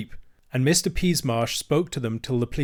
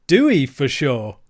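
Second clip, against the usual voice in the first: slow ostler; 7 dB louder, slower than usual. Acted. The ostler speaks once.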